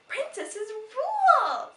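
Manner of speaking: high, loud, slow chant; loud cheer. Acted. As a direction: cheer it out triumphantly. Molly cheering loudly.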